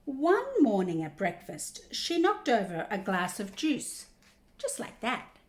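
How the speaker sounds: picture-book reading with big pitch swings; reading to children. Acted. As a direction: draw out the key words for young listeners. Reads picture book aloud.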